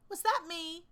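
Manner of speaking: put-on a child amazed at himself; high awed question. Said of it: "in an awed voice".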